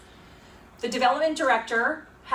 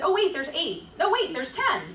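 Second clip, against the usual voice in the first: "oh wait" voice going higher and higher; mock the flustered consultant, pitched up; 7 semitones higher than usual. Mocking consultant's correction.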